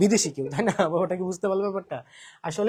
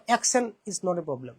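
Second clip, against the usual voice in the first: slow and deliberate; emphatic advice; much slower than usual. Shown as a demonstration. Teacher reassuring students, slow and firm. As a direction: spell it out slowly so it sinks in. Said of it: "মনে রাখবা".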